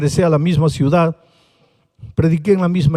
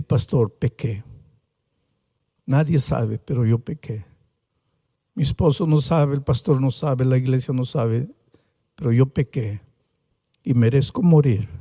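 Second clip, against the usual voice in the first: tearful confession; 4 semitones lower than usual. Retold or imitated. Paralysed sister confessing to the pastor, tearful and hushed. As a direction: confess a hidden sin through tears, hushed. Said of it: "Y ella comenzó a llorar".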